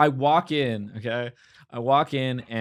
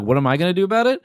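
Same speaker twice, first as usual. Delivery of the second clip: higher-pitched mock comeback; retold comeback; 4 semitones higher, much faster than usual. Storyteller answers the aggressive man, mock-defiant comeback. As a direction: echo the challenge back, pitched up. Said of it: "And I'm like".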